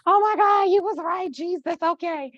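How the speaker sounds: high-pitched, mock-tearful gratitude; acted tearful cry to God; happy tears. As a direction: gasp it out high, overcome. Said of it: "a lot of the tears now".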